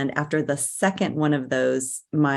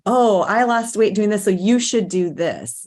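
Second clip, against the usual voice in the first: mock eager advice; 4 semitones higher, 4 dB louder than usual. Mimicking a dieting friend's advice.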